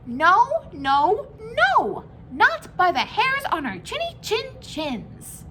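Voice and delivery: high, loud cry of pigs; little pigs. A narrator's reading. Three frightened pigs shouting at the wolf, high and loud. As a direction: shriek it high and defiant. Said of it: "so they answered back".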